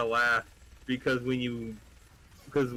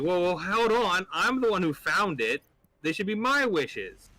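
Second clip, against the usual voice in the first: indignant rabbit; 7 semitones higher than usual. Acted. Rabbit voiced in joke.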